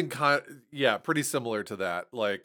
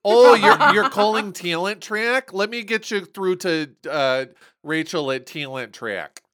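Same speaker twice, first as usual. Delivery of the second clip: high, loud, bright phone-receptionist voice with a Toledo A; Toledo receptionist accent; 7 semitones higher, 10 dB louder than usual. Retold or imitated. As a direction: imitate the chirpy Toledo receptionist. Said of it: "that version of A is more Toledo".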